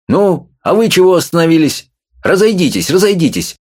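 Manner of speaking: commanding shout to disperse the crowd; повелительный окрик. A narrator's reading. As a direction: order the gawkers off the street. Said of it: "повелительно крикнул он". (властно, громко: разойдитесь)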